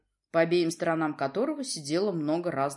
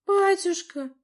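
«Батюшка» cried out much higher and louder; desperate cry; 13 semitones higher, 7 dB louder, slower than usual. A narrator's reading. Princess desperately cries out to her father. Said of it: "отчаянно воскликнула княжна".

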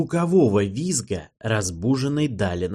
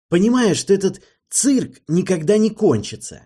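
higher and louder, weary anger; exasperated outburst; 9 semitones higher, 5 dB louder than usual. A narrator's reading. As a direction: vent at the circus. Archie exasperated. (раздражённый возглас, выше и громче)

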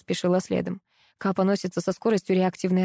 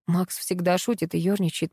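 ordinary delivery

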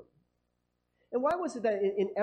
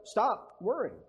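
sarcastic mock relief; 2 semitones higher, 7 dB louder than usual.

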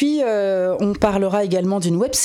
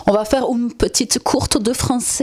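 put-on French with a blended American and Belgian accent; mixed foreign accent; 3 semitones higher than usual. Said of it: "c'est un mélange d'accents".

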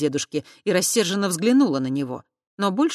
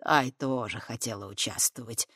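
low, soft kindly remark; good-natured; 5 semitones lower, 5 dB quieter than usual. Acted. Fat man kindly explaining about Tai, soft and low. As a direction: say it benignly. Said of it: "благодушно сказал толстяк".

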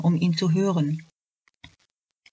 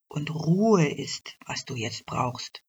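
calm doctor; 4 dB quieter than usual. Acted. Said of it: "sagte der Doktor".

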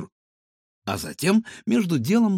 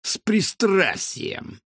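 drawn-out threat; 8 semitones higher, much slower than usual. A narrator's reading. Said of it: "прищурился Рикошет".

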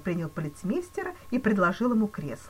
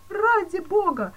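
much higher, louder, slow terrified cry; cried out in fear; 9 dB louder, slower than usual. A narrator's reading. Frightened banker crying to the police chief, terrified. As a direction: cry out in growing terror. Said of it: "вскричал банкир, всё более и более пугаясь".

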